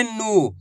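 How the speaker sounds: नू with a drawn-out long ऊ; खींचकर नू बोलना; long oo sound. Shown as a demonstration. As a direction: stretch out the vowel of नू. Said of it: "खींच खींच के इसका उच्चारण करना है".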